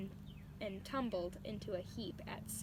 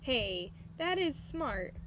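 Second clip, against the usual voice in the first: loud, high, impressed; be struck by the kitten's cleverness; impressed surprise; 4 semitones higher, 6 dB louder, slower than usual. A narrator's reading. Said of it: "said Bounder".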